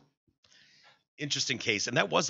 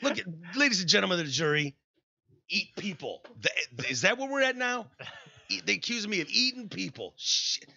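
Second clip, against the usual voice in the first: higher, fast mock lawyerly plea; mock courtroom defense; 5 semitones higher than usual. Host playing Dahmer pleading to the jury, hammed-up. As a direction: play a cannibal defending himself.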